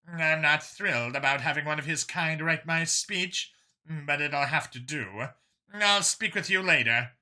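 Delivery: lightly voiced female official, reluctant; a hint of grudging official; Kuyina's voice. Kuyina agreeing to a speechwriter, lightly reluctant.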